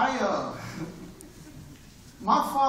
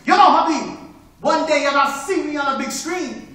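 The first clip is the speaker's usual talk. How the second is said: Sid, lightly voiced; 3 semitones higher, 9 dB louder than usual. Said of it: "and he tell me".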